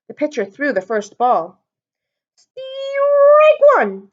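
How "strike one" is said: high, loud umpire call; loud high ballpark call; umpire's yell. A narrator's reading. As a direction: bellow it like an umpire. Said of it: "yelled the umpire".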